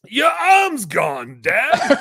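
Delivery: high, loud, drawn-out parody cry; slow comic yell of disbelief; mock-dramatic shout. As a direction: play the horrified straight man, hammed up. Joke reply in film parody.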